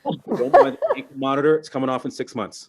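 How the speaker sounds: quoting the daughter through a laugh. Retold or imitated. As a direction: laugh while breaking the news. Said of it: "Dad, relax".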